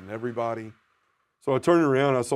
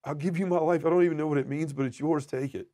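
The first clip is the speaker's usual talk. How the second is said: raised, earnest prayer; pleading surrender; 5 semitones higher than usual. Retold or imitated. Husband and father giving God his life, pleading. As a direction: offer it all up in a high, urgent plea.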